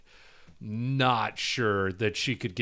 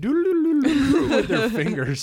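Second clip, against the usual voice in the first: laughing; 14 semitones higher, 6 dB louder than usual. Retold or imitated. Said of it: "I was like".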